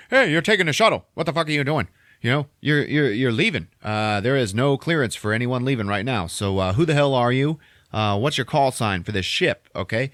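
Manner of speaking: mock officious radio scolding; stern radio challenge. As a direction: challenge them over the radio. Radio officer stopping shuttle.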